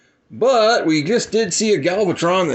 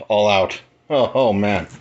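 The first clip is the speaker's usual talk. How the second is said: out of breath; 4 semitones lower than usual. Real, not acted. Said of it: "I'm out of breath".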